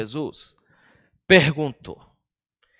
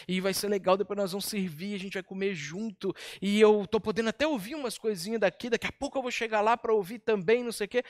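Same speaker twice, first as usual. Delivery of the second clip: content inner thought; 6 dB quieter, faster than usual. Pretend. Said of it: "ela tá lá pensando assim".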